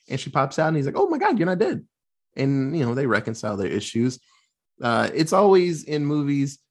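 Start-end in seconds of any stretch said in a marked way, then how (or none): 1.0-1.9 much higher, hammed-up gasp of relief; mock relieved shock. Retelling the father seeing his daughter alive, in hammed-up higher shock. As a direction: play the dad's over-the-top disbelief.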